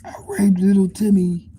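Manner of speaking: put-on hushed, guilty whisper of a drunk; drunk whispered confession. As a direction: whisper it like a shameful secret.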